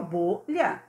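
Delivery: "bolha" as two separated syllables, bo, lha. Shown as a demonstration. Teacher repeating for pupils, "bolha" said syllabically. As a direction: break "bolha" after the first syllable. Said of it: "Bolha tem duas sílabas".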